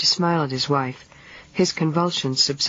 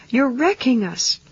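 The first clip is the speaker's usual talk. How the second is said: panicked outburst; 9 semitones higher than usual. A narrator's reading. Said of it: "she cried out in a burst of panic".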